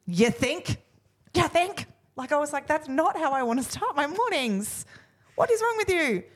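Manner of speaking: high-pitched incredulous telling-off; exasperated scolding. Retold or imitated. Mother retells scolding her kids in the car, high exasperated rant. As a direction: let the kids have it, voice jumping up.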